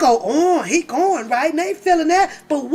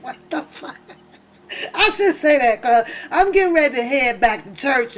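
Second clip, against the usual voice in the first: ordinary talk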